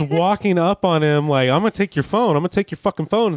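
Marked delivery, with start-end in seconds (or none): 1.5-3.3 mock threatening yell. Retold aggressor threatening the filmer.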